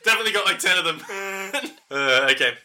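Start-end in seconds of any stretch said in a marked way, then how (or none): 0.0-1.0 lightly raised boastful bluff; mock bluff. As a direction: brag about answers you don't have. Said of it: "just sit there and be like".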